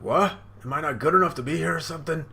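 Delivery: high, loud and fast indignant retort; bristling insulted comeback; offended snap. Retold or imitated.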